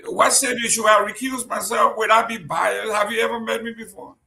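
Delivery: hammed-up indignation at the mail; mock indignant shout. Real, not acted. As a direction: protest the accusation with a grin in the voice. Mock outrage about recusing himself.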